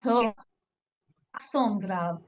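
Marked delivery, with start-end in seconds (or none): 1.4-2.2 "accent grave" in French, grave as "grahv"; French pronunciation. Shown as a demonstration. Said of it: "can you pronounce accent grave".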